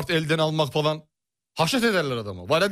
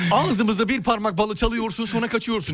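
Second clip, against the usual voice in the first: laughing; 4 semitones higher than usual. Real, not acted. Laughing while teasing host.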